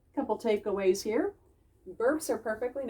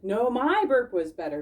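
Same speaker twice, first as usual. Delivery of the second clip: a hint of a second boastful critter, louder; Bismarck's voice; 3 semitones higher, 5 dB louder than usual. Bismarck insisting to Bink, light character voice. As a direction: answer the brag in a different character voice. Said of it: "Bismarck said".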